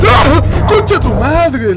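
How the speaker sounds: loud slowed yell of fright; startled shout. Real, not acted. Player jolted by a zombie, loud shout. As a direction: yell out at the scare. Sudden scare in game.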